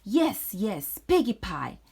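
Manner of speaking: greedy witch. Acted. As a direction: relish the words like a hungry hag. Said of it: "smacking her lips".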